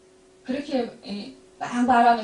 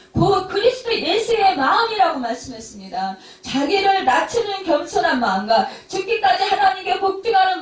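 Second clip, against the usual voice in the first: emphatic sermon with raised, loud peaks; forceful preaching; 5 semitones higher, 6 dB louder than usual. Real, not acted. Pastor urging listeners to hold Christ's heart, forceful preaching. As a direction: drive the teaching home to the congregation.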